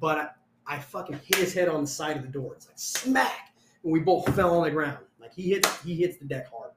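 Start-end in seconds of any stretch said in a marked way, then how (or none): 2.8-3.5 higher-pitched mimicked smack; imitated impact. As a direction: sound out the hit sharply. Imitates head hitting the door.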